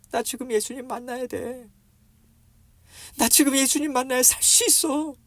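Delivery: very high, urgent plea; desperate insistence. Acted. Beggar who must meet Jesus to live, desperate insistence. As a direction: insist as if life depends on it.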